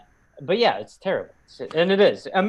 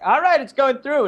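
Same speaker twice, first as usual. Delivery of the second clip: mock announcement; 13 semitones higher, 5 dB louder than usual. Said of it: "it was just all of a sudden like".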